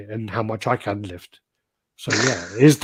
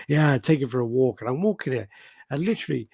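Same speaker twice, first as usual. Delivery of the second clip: a light take on a gleeful comic ranting, pitched higher; imitating Bill Burr; 5 semitones higher than usual. Retelling a stand-up bit about walking a scary dog, lightly imitating the comic's voice. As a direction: brag about the empty sidewalk like the comic, only lightly voiced. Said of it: "the way he says it is fucking great".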